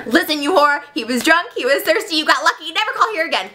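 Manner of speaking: sassy telling-off; Mister Carmagia. Acted. Assistant telling off a caller, sassy. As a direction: scold the caller with theatrical sass. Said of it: "he's a little sassy".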